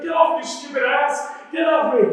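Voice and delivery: high, loud scolding of the donkey; acted angry outburst. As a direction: yell in pain at a stubborn animal. Acted Balaam yelling at donkey.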